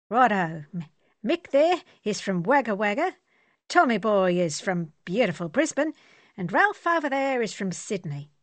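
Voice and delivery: loud, cheerful Aussie bloke; hearty Australian soldier. Acted. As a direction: boom out the introductions. Archie introduces his mates.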